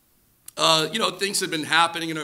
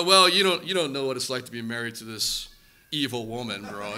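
bitter complaint; 7 semitones lower than usual. Retold or imitated. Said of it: "I go".

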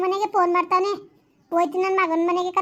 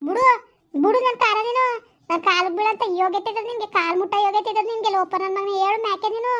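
indignant scolding, pitched up; angry rejection; 3 semitones higher than usual. Acted. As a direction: scornfully order the pleader off. Wife rejects husband grovelling at feet.

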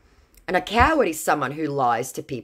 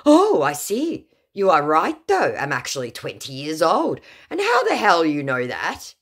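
mock amazed scammer; 5 semitones higher, 4 dB louder than usual. Scammer amazed narrator guessed age, high put-on voice. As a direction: play the scammer startled and impressed.

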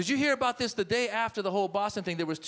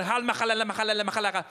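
mock Arabic with cheery words; 7 semitones higher than usual. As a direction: drop friendly words to calm people. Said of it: "If you're Arab, you're walking out".

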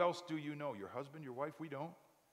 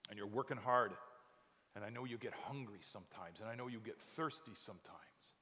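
comforting Jesus. Acted. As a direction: console the weary. Jesus comforting struggling believers.

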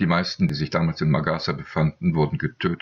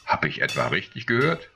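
surprised; 4 semitones higher than usual. A narrator's reading. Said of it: "rief Agathon verwundert".

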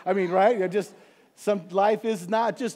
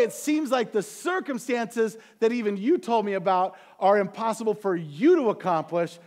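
frustrated lament; 3 semitones higher, 4 dB louder than usual. Retold or imitated. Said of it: "down and out like that".

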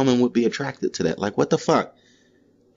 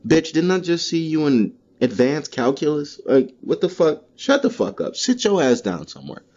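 mock scolding classmate; 4 semitones higher than usual. Voicing classmates calling him out.

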